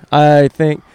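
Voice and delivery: slow drawn-out loud test; peaking mic test. Real, not acted. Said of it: "I think we're good".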